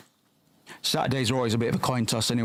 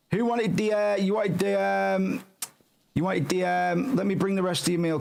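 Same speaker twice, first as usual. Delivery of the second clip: higher, hammed-up waiter call; calling out orders; 6 semitones higher than usual. Game cook calls out to customers whose meal is ready, mock service voice. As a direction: call across the diner to find the customer.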